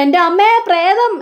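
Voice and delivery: mock scared squeal at a ghost; frightened cry. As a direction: jump back seeing a ghost. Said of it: "പേടിച്ചുകൊണ്ട്".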